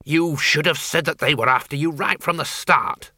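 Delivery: tart countrywoman with a grudge; feisty old farm woman. Acted. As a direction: rattle it off, indignant. Flitworth scolding.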